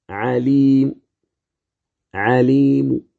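عليم ending in a faint, barely voiced u on the mim; stop with rawm. Shown as a demonstration. Teacher demonstrating the rawm stop for students. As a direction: whisper a third of the vowel at the stop. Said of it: "فتقول".

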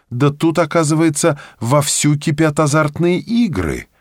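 high-pitched surprised discovery; excited exclamation. A narrator's reading. Woman discovers gambling going on, excited exclamation. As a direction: cry out in amazement, pitch held high. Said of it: "вскричала прекрасная сталинистка".

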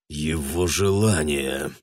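put-on man grinding out words at the girl; through gritted teeth. A narrator's reading. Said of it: "процедил он сквозь зубы".

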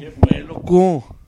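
slow, drawn-out Sinaloa greeting, loco stretched; Sinaloa plebe accent. Pretend. Podcaster shows off his Sinaloa accent, slow Sinaloa drawl. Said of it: "Puro plebe".

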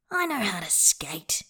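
huffed, half-whispered and breathy; a put-out little huff. Acted. Man answering his teasing lover, mildly huffy. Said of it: "Bai huffs".

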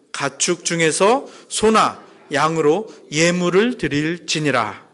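slow, measured Bible reading; scripture reading aloud. Real, not acted. Preacher leading the congregation through Leviticus, scripture reading. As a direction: read slowly, leading a group in unison. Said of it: "다시 같이 한번 읽어보겠습니다".

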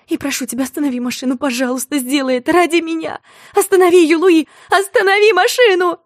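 от тихой просьбы к громкому высокому крику; умоляй, срываясь на крик; отчаянная мольба. Acted. Умоляет остановить машину. (отчаянный крик)

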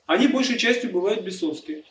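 ordinary talk, nothing marked

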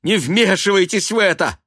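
high, loud furious plea; angry outcry. A narrator's reading. Son ordering mother not to meddle, angry. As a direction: snap at her in shame. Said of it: "вне себя от стыда и гнева".

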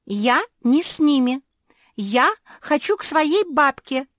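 high, loud indignant outcry; shouting protest. A narrator's reading. Ninon pleading to be let go, high shouted protest. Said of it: "закричала Нинон".

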